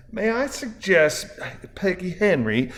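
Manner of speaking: high, slow Southern belle voice; Deep South drawl. A narrator's reading. Balloony offering a code name, high Southern belle drawl. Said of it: "in a Ziz Deep South drawl".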